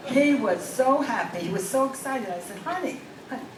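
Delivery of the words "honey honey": calling out. Acted. Calling husband, mock alarm.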